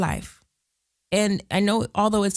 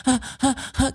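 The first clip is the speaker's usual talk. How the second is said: short gasping sob sounds, higher; mock the caller catching her breath; imitating sobbing breaths; 7 semitones higher than usual. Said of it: "She's just crying".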